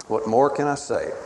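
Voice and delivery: soft closing plea; quiet pleading God. Acted. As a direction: let the question fall gently, resigned. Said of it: "God is pleading and imploring".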